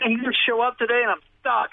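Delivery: high-pitched retold complaint; stranded complaint. Employer tells teller his worker is missing, stranded complaint.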